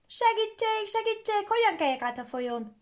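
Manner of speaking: very high, loud panicked call; cry for help. Acted. Gingerbread boy stuck at the river, high panicked cry. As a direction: shout for help at the river bank. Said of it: "kiáltotta".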